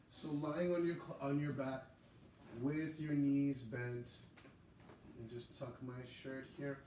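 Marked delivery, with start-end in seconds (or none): 0.1-4.1 raised, projected teaching voice; yoga class instruction. Real, not acted. Yoga teacher opening class for students at home, projected instruction. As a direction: lead the class in, louder and higher, stretching the final phrase. Cues the starting pose.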